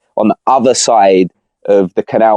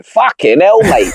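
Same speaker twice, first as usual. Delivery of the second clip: much higher, mock-outraged British bloke; shocked Brit; 9 semitones higher, slower than usual. Brit imagining forty degrees heat, high mock shock. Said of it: "we're thinking".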